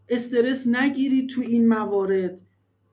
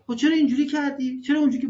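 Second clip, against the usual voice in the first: mock nagging parent; 2 semitones higher, much faster than usual. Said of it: "از حرف زدنشون اشکال گرفتن".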